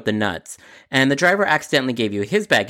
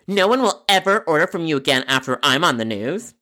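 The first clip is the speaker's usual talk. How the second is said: threatening customer; 3 semitones higher than usual. Acted.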